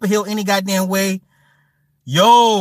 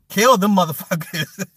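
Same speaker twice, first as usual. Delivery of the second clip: laughing through it; 3 semitones higher than usual. Retold or imitated. Laughing while repeating quote.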